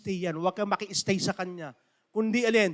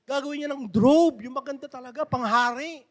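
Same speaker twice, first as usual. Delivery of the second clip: joyful Mamberto; 4 semitones higher than usual. Retold or imitated. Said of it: "Sabi niya".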